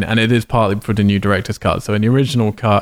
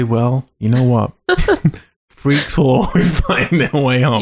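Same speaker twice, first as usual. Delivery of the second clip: folksy aunt; 2 semitones higher, slower than usual. Retold or imitated. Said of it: "would anyone in your family ever say".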